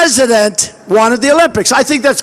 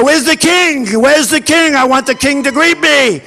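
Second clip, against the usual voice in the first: mock indignant demand; 3 semitones higher than usual. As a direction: play the offended guest demanding his host. Acts himself demanding the king.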